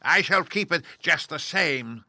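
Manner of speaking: high, loud, slow gloating witch; sneering crone; mocking witch. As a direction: taunt the girl, savouring it. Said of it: "said the witch, laughing at her".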